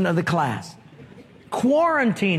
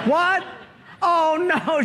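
startled realization; 8 semitones higher than usual. Acted. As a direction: caught off guard by the mistake. Caller realizes wrong number.

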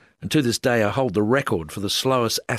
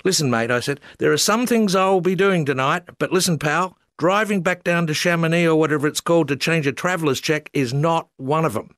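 tantrum; 7 semitones higher than usual. Retold or imitated. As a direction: throw a full tanty at the official. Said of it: "chucked an award-winning tanty".

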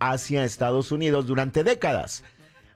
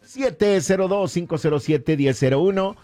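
higher, driving announcer read; radio contest promo; 4 semitones higher than usual. Real, not acted. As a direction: sell the contest to listeners with punch.

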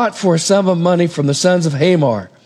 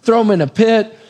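higher and rising, ending in a half shout; excited brothers scheming; 5 semitones higher than usual. Retold or imitated. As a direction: brothers getting carried away with the plan. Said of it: "And they say".

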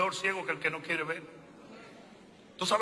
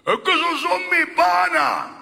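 higher and louder, a whiny excuse; mock excuse; 13 semitones higher, 11 dB louder than usual. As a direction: toss off the excuse like a defensive friend. Mimicking a believer's excuse.

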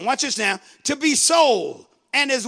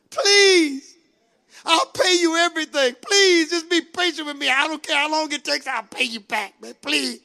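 high pleas tumbling into quick promises; desperate begging; 3 semitones higher than usual. Acted. Servant promises his lord full repayment, desperate begging. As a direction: beg urgently, then sink on the last promise. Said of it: "You begged me".

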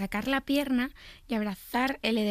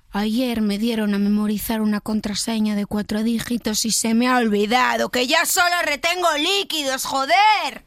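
building to anger; 3 dB louder than usual. Acted. Contestant copying the impersonator's transition, building anger. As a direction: climb gradually into an angry final curse. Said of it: "del susurrado al enfadado".

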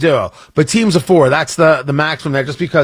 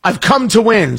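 a higher, hammed-up imitation of a trivia fanatic; mock fierce competitor; 6 semitones higher, slower than usual. Producer telling the host to shut up, mock fierce. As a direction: play the over-serious rival snapping at a joker. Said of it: "He says".

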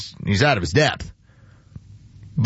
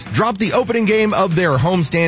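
brisk sports headline read; news read. Acted. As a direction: read the headlines like a radio anchor.

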